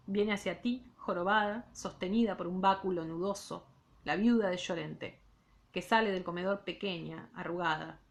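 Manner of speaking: measured literary read-aloud; reading a novel aloud to students; story narration. A narrator's reading. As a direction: read the novel to the class, unhurried. Teacher reads novel aloud.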